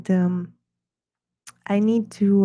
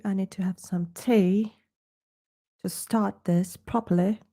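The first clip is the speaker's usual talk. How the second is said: a hint of a posh British accent; wannabe British accent. Vlogger greets viewers at his art show, in a wannabe British accent. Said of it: "losing my accent a little bit".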